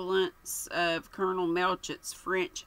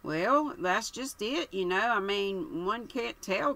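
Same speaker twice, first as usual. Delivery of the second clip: put-on dithering young man; 3 semitones higher than usual. Bartlett dithering.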